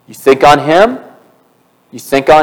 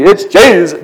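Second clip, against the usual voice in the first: mock TV preacher. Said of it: "one of those T V preachers that people are sending money to".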